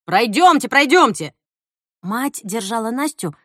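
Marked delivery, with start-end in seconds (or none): 0.0-1.3 insistent. Acted. Official ushering Nastya along.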